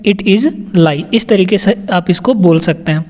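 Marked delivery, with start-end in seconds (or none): 0.0-1.1 "It is lie" drawn out word by word; slow it down for the class; slow clear repetition. Shown as a demonstration. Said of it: "teacher repeats sentence slowly". (धीरे-धीरे साफ़ उच्चारण)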